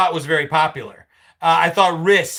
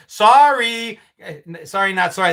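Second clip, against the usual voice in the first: dripping with sarcasm; a fake apology, not meant at all; sarcastic; 3 dB louder than usual. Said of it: "with a very sarcastic".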